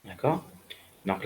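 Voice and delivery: normal talking voice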